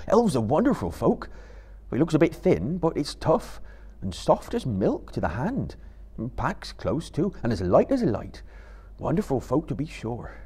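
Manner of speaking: fond, homely praise of elven rope; Sam the hobbit. Acted. Sam telling Frodo about the rope, admiring.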